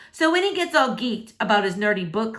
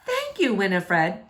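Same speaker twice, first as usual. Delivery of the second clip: teacher cutting in. Acted. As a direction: cut her off politely. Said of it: "Miss Hardwick interrupts".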